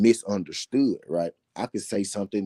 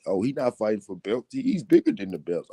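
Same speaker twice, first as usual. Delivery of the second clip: high-pitched mimicry of naysayers; put-on high voice for a silly objection; mock objection; 6 semitones higher than usual. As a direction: mimic the doubters in a raised, squeaky pitch.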